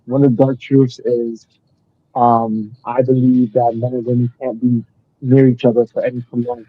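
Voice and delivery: muffled, like through a wall. Real, not acted. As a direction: voice dulled by a bad mic. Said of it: "you sound muffled".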